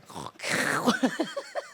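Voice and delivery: exaggerated snore breaking into laughter; mock snore. Snoring as prayer to the Father, mock snore. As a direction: snore noisily, then laugh. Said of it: "그 코골이를".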